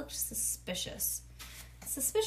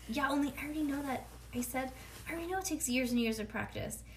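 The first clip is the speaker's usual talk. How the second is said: fast insisting; 4 semitones higher, faster than usual. Acted.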